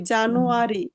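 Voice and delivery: জানুয়ারি with a J sound and final ri; everyday English-style pronunciation. Shown as a demonstration. Teacher recalls how we usually say January, everyday pronunciation. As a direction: say জানুয়ারি the familiar way, ja-nu-a-ri. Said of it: "আমরা বলি কি".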